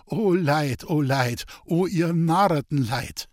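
troubled lament. A narrator's reading. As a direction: bemoan it with troubled emphasis, stretching the last words. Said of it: "sah ihr bekümmert nach".

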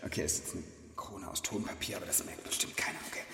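whispered aside; whispering. Real, not acted. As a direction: hush it as a secret remark. Aside about paper crown. (geflüstert)

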